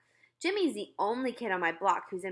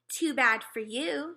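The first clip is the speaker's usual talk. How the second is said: smug; 5 semitones higher, slower than usual. Acted. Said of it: "Sheila said".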